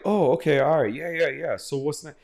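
high, casually accepting interviewer voice; mock interviewer. Podcaster mocking an interviewer who accepts everything, high and breezy. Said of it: "the dude interviewing him was like".

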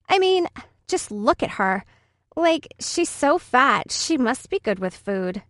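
put-on lightly sneering bratty girl; a hint of a cruel schoolgirl; mean girl voice. Bully mocking a classmate.

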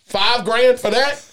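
slow, drawn-out disbelief at a price; incredulous. Acted. Host scoffing at a five grand dog price, slow disbelief.

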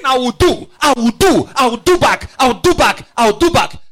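a hint of a petty avenger; mock vengeful voice. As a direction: mimic someone muttering revenge. Preacher mocks vengeful talk.

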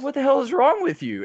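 high, loud mock screaming fit; the lady screaming at the helpful guy, high and loud; retold scream. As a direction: shriek it at him like she's lost it. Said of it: "the lady was just screaming at him".

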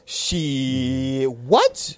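drawn-out first word, rising second; mock shock at the price; stunned disbelief. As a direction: stretch it out, then jump up in disbelief. Stunned reaction to apartment rent.

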